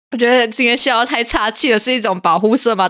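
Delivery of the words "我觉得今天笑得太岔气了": breathless from laughing; winded after a laughing fit; after laughing hard. Real, not acted.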